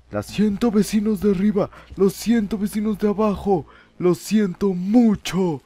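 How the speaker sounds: high, loud yell to the neighbors; shouted apology. Real, not acted. Player apologizing to neighbors upstairs and downstairs, shouted apology. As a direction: call it out through walls, stretching the last words. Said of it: "Yo aquí gritando a estas horas".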